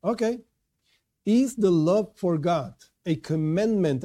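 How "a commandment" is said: "commandment" stressed, MEND leaned on. Real, not acted. Teacher questioning whether love of God is obligatory, stressing "commandment". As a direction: lean firmly on the word "commandment". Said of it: "I stress this word".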